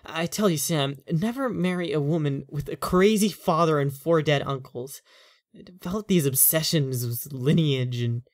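lightly voiced husband, getting worked up; a tired man whose worry turns to exasperation; frustrated husband. Owen vents about wife's family.

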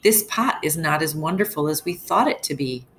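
a touch of frustration in the complaint; read angrily. Acted. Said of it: "cried angrily".

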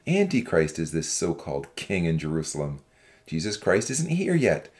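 low-pitched, forceful character harangue; restrained shout of an accusing young man; shouted warning. A narrator's reading. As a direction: call out a warning without much volume. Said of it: "a young man stood up and shouted".

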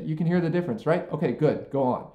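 breezy tossed-off "You can hear the difference, right?"; a teacher faking a check for understanding; dismissive quick check. Shown as a demonstration. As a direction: brush past the question without waiting for an answer. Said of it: "Don't just say".

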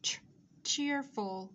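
"ch" alone, then the whole word "cheerful"; isolated "ch" sound. Shown as a demonstration. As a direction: sound out ch separately before saying "cheerful". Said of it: "chúng ta có âm ch".

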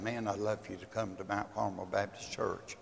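soft, low, kindly invitation; tender invitation. Retold or imitated. Retold tender invitation to church.

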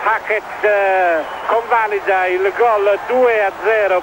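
excited commentary. Real, not acted. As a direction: commentator reacting to a goal. Goal conceded, players protest.

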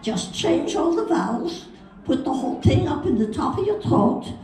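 throaty hammed-up Jewish accent. Shown as a demonstration. Coaching Hal on the vowels, Jewish accent. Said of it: "trouble with the Jewish accent".

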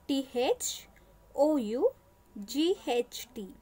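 THOUGHT spelt letter by letter; spelling out. Shown as a demonstration. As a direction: spell out T H O U G H T, one letter at a time. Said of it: "spelling the word out".

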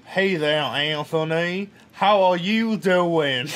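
put-on slow, drawn-out southern accent. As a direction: drawl like a southern boy. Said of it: "talk to me like a southern person".

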